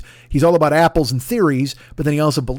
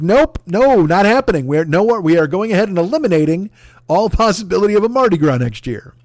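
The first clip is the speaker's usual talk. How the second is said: louder, higher, emphatic mock refusal; mock offended refusal; 4 semitones higher, 3 dB louder than usual. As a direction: shut it down like outraged officials. Acting out offended Mardi Gras organizers.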